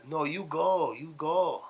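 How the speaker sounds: high put-on Asian accent; singsong imitation of Asian-accented English; mock Asian accent. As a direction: insist in a caricatured Asian accent. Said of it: "Damn, you've been practicing".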